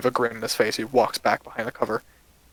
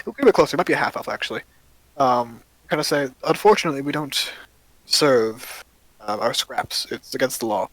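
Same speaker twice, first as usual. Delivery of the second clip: stern elf. Acted. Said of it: "look at you sternly and go".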